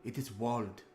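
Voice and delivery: Ismark pleading. Acted. Ismark asks the party to escort his sister, lightly voiced earnest plea. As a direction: ask the heroes for help, worried.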